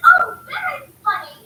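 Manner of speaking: light imitation of mom's British accent; mimicking British accent. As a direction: tease it in a mild British accent. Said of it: "in her British accent".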